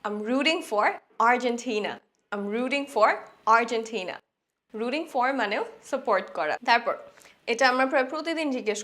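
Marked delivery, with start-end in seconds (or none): 0.0-2.0 each word slow and clear; slow teacher demo; slow model phrase. Shown as a demonstration. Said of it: "আমরা এটাও বলতে পারি". 2.3-4.1 slow careful repeat for learners; slow teacher repeat. Shown as a demonstration. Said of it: "আমরা এটাও বলতে পারি".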